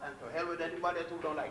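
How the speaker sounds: a chuckling, dismissive throwaway; laughing defiance. Real, not acted. Defiant aside after eating ham.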